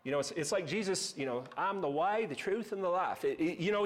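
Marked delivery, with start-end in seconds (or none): 1.6-3.2 put-on Southern accent. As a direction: voice Jesus with a hint of a Southern accent. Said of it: "Jesus had a Southern accent".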